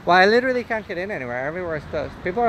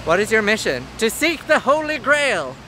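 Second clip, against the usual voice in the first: grand quest voice; 6 semitones higher than usual. Pretend. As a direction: declaim it like a knight. Quoting Monty Python.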